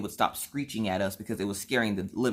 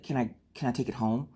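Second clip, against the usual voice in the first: put-on child voice. Daughter voiced in story.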